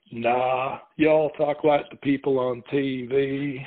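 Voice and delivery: very slow imitated Southern drawl. Southerner answering whether Californians have an accent, drawling. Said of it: "talking with the drawl".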